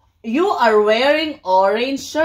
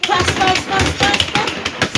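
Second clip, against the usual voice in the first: fast; 8 semitones higher than usual. Shown as a demonstration. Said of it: "So what about fast?".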